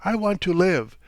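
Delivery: an anguished, tearful cry; tearful outburst. A narrator's reading. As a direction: plead for her own life, near tears. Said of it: "she repeated".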